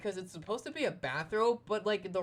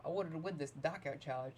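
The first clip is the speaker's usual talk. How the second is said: yawning. Real, not acted. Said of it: "Sorry, I just yawned".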